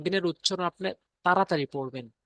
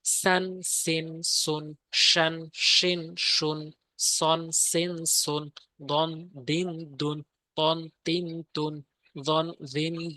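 reading drill; much slower than usual. Shown as a demonstration. Teacher reading Quran syllable drill to pupils, steady recitation. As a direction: chant the tanween syllables one by one in a steady recitation rhythm. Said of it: "আমি শুধু রিডিংটা পড়ে যাচ্ছি".

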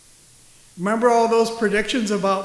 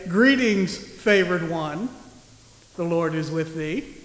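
stately angel greeting; 4 semitones lower than usual. Retold or imitated. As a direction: intone it like a formal proclamation. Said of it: "does not say".

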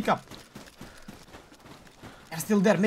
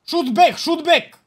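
urgent command; 5 semitones higher, 4 dB louder, slower than usual. Pretend. Ordering return fire.

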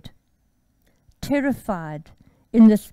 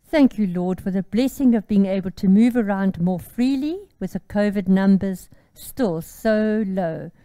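earnest, gentle prayer voice. Acted. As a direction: pray humbly to the Lord. Prays before the Bible study.

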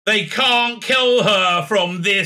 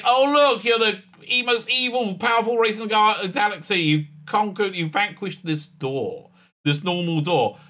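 smug; 5 semitones higher than usual. Retold or imitated. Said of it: "smug at the end".

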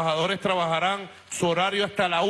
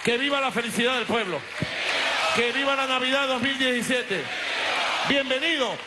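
ranting dictator speech; 6 semitones higher than usual. Real, not acted. Rally cries ending a speech.

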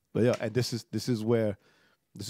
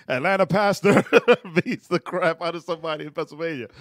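mock headline; 4 semitones higher, 9 dB louder than usual. Mock news headline, laughing.

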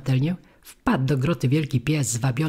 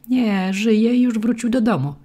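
put-on much higher and louder, an old man's bright insistence; eager correction; 8 semitones higher, 4 dB louder than usual. A narrator's reading. Old man correcting the grieving puppet, eager raised voice. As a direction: rush to correct him.

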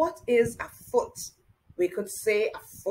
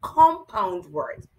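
Compound words said slower and louder, each syllable weighted; emphatic repeat; 2 semitones lower, 5 dB louder, slower than usual. Shown as a demonstration. Teacher stresses Compound words for young pupils, slow and firm. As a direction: lean on Compound words to drive the new term home. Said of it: "We call these words compound words".

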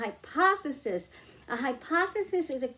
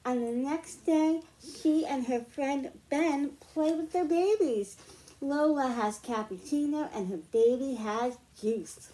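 lively picture-book read-aloud; reading to children. Acted. Teacher reads a picture book to the class, storytime voice. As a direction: read it like storytime for little ones.

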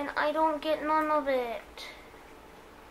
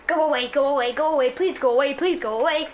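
harsh; 6 dB louder, faster than usual. Real, not acted. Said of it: "I'm getting kinda harsh".

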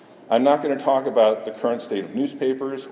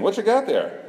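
dragon demanding; 10 semitones higher than usual. Acted. Dragon voice in comic.

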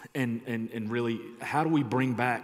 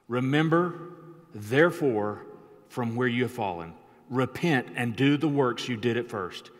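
scripture reading. Acted. Pastor reading scripture aloud to the church, proclaiming. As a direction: proclaim the verses to the standing church.

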